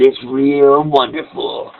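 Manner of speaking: slow, mock-sweet sarcasm; sarcastic. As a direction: drag it out, dripping sarcasm. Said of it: "I was being sarcastic".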